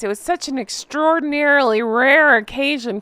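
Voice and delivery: dripping with sarcasm; mock-impressed, heavy irony; sarcastic. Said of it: "Please read the sarcasm in my voice".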